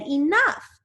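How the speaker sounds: mild mock of the chilling order; retold command. The speaker retelling the voice that shouted, mild mock command. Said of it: "someone said".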